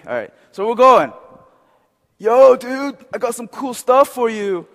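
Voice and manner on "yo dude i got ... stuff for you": loud, high hippie dude. Acted. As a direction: offer it like a hippie pusher, pitched up. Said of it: "I'll probably do a hippie voice".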